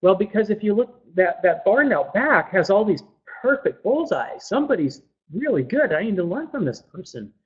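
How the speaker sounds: lightly voiced young man making his case; eager young archer. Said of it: "And he says".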